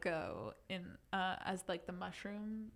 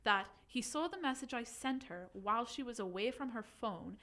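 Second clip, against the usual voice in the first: put-on light Irish accent reading. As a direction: keep the Irish lilt going. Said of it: "do it in Irish".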